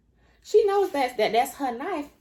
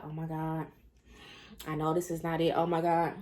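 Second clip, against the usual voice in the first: hushed dread; 5 semitones lower, 6 dB quieter than usual. Retold or imitated. Jen afraid in bathroom.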